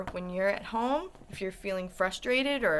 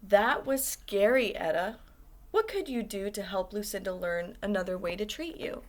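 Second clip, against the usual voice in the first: soothing voice. Acted. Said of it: "says in a soothing voice".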